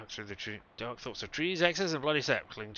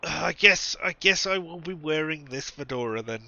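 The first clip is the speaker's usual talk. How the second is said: grudging resignation; 5 semitones higher, 7 dB louder than usual. Real, not acted.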